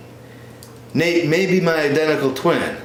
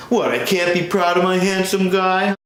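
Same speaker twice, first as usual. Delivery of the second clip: mom voice; 6 semitones higher than usual. Acted. Son's parent on the phone.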